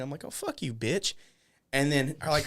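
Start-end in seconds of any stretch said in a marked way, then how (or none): 0.2-1.1 hissed so no one hears; muttered insult. Retold or imitated. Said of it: "no one can hear me".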